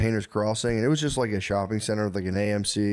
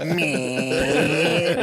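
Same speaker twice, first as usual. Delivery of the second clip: mock bored girl; 5 semitones higher, 3 dB louder than usual. Girlfriend brushing the guy off.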